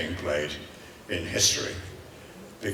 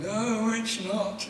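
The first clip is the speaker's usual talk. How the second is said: retold denial; 12 semitones higher, 3 dB quieter, much slower than usual. Acted reply to friend's teasing question.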